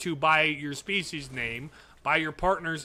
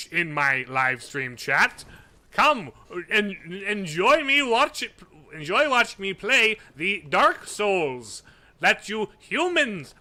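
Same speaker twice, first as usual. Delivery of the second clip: loud, slow, grandiose alien voice; dragon voice; 3 semitones higher, 5 dB louder, slower than usual. Pretend. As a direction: boom it out like a creature pretending to be human. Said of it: "Is that better?".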